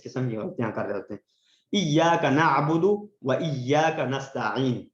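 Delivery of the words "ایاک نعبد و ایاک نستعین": correct recitation. Shown as a demonstration. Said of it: "اس کو ہم غلطی سے کیا پڑھ رہے ہوتے ہیں".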